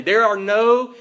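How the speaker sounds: slow, forceful declaration; emphatic. Real, not acted. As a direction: declare it firmly, drawing out the words. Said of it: "We say this emphatically".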